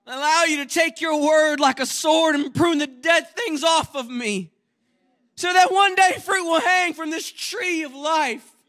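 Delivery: high, loud pulpit preaching; preacher's full-force exhortation; fiery preaching. Acted. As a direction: preach it hard to the congregation.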